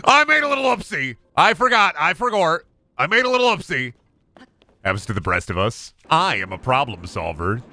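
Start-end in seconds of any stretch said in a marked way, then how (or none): 0.1-3.9 put-on high, louder sing-song baby talk; mock-innocent baby voice; cutesy baby voice. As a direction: play innocent like a toddler. Cutesy confession after mishap.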